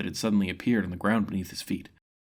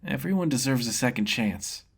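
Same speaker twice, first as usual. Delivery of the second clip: smiling; 3 semitones higher than usual. Acted. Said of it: "Ren smiled".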